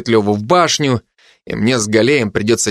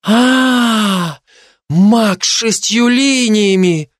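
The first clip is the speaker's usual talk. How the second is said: surprised; 9 semitones higher, much slower than usual. A narrator's reading. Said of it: "глаза расширились от удивления".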